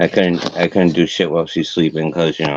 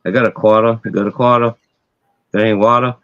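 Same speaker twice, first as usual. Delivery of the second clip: r-less Massachusetts demo lines; Boston accent; faster than usual. Shown as a demonstration. Showing off the Boston accent to an online friend. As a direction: lay on the Boston accent, dropping every r. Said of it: "like, quarter".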